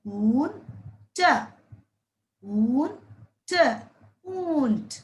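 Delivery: ऊंट drawn out very slowly, nasal vowel held long; slow sounding out. Shown as a demonstration. Teacher sounding out ऊंट slowly for young pupils. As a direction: stretch the vowel out for the class. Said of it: "plus अन".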